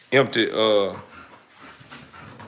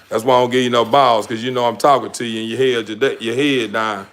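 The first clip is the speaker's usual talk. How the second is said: scolding the dog. Real, not acted. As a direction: scold the dog for ignoring him, fast.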